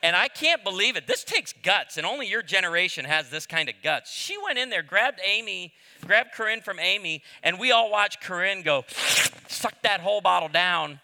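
loud, high storytelling build; loud preaching. Real, not acted. Pastor telling congregation the bottle story, loud and rising. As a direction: punch it out to the room.

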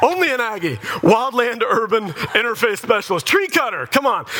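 high-pitched exasperated scoff; high, derisive retelling; mocking disbelief. Mocks the rival school's degree.

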